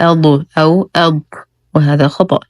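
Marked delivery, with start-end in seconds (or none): 0.0-0.4 أض with a bouncing vowel release after the ض; wrongly bounced dad. Shown as a demonstration. Teacher showing a common error, dad bounced in أض. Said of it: "أن تقلقل أو تهمس". 1.0-1.2 أض cut short with a whispered release of ض; wrongly breathed dad. Shown as a demonstration. Teacher showing the second error, dad devoiced in أض. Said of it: "أن تقلقل أو تهمس".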